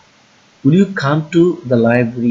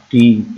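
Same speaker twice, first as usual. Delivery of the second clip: টিম pushed out firmly; stressed syllable demo; 5 dB louder, much slower than usual. Shown as a demonstration. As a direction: put weight on টিম. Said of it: "এটা stress word". (টিম-এ জোরে চাপ)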